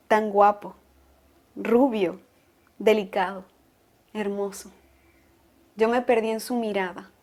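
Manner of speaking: tender, softening as the list goes on; smitten reminiscence. Acted. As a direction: linger on each word, lovestruck and hushed. Smitten, remembering the man she loved. (recuerdo enamorado, cada vez más suave)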